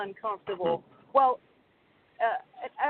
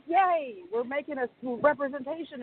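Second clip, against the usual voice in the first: lightly cheering, higher-pitched yay; mild mock celebration, pitched up; inward cheering; 4 semitones higher than usual. Viewer retelling her silent delight at representation on screen, mildly cheering. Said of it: "inside I'm cheering".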